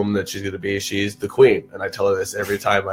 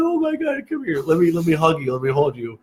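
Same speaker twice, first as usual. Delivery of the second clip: soothing father; 7 semitones higher than usual. Retold or imitated. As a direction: comfort a crying child, softening. Father soothing his crying daughter.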